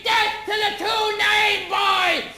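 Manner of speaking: slow, drawn-out mock war cry; hammed-up yell, stretching each word; mock scream. Mob waving axes at the intruder, slow mock scream.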